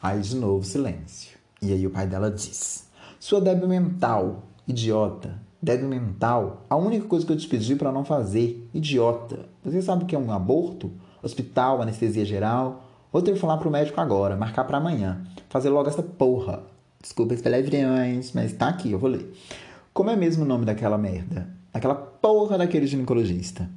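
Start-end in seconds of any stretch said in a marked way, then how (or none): 3.2-16.6 acted outburst, insults pitched up and hit hard; angry father. Father scolding his daughter over her pregnancy, angry. 19.9-23.7 acted exasperated cursing, raised at the end; angry father. Father hunting for the gynecologist's number, angry.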